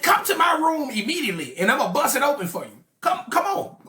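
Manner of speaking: seductive invitation. Retold or imitated. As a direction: beckon him to the bedroom, rising on the last call. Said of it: "she said".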